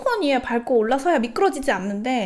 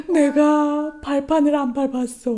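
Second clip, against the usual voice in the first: put-on higher, slow, sulky little-kid voice; teary child voice; 5 semitones higher, 3 dB louder, slower than usual. Mom imitating her sobbing son's excuse. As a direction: whimper it like a small boy caught out.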